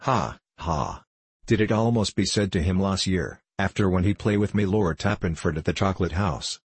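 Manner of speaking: a hint of a teasing Frenchman; lightly accented French gambler, needling a nobleman; touch of French accent; lightly voiced French gambler.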